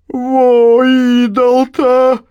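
very high, loud, slow wail; desperate exclamation. A narrator's reading. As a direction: throw up your hands and cry out. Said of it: "отчаянно всплеснула руками Марфа". (отчаянный вопль)

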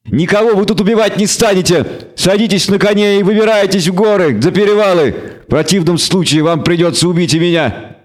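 high, defiant goat-devil voice. A narrator's reading. Devil ordering elves to the mountains, bleating defiantly. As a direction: bleat out a high-pitched command. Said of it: "заблеял ещё громче".

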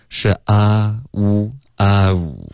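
啊呜 sliding from open a to oo; teacher models the glide. Shown as a demonstration. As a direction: open wide then glide. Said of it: "不要发成own".

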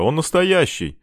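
high, excited exclamation; amazed admiration. A narrator's reading. Child sees a real pistol, amazed. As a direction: marvel in a high pitch. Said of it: "восхитился кто-то".

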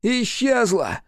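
high, rising demon cry; a climbing near-shout of loss; almost shouting. A narrator's reading. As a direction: push toward a scream, not quite there. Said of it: "почти закричал он".

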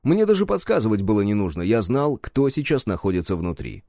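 plain reading voice

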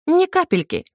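high, giggly reply, a touch playful; a light giggle in a young woman's voice; giggling. Acted. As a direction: toss it off with a giggle. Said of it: "хихикнула я".

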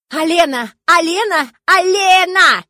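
shrill shouts of the name, rising each time; calling out. A narrator's reading. Nun yelling Alena to wake the sleeping girl, rising shouts. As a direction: yell her awake.

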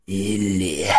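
low, slow, grim warning; stern commander voice. Acted. Commander starts a reply. (низкий суровый голос командующего)

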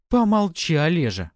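high, loud snap; snapping. A narrator's reading. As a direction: bite back at him. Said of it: "огрызнулась она в ответ".

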